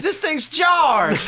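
high, loud, slow stunned voice; stunned after the jolt; shocked farmer line. Retold or imitated. Farmer just electrocuted, high, slow and loud. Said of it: "He says".

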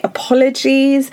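ordinary talk

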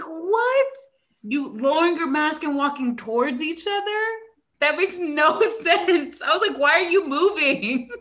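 high, loud disbelieving questions; alarmed scolding. Retold or imitated. Teacher to students lowering masks, high exasperated. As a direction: stretch it out in exasperation.

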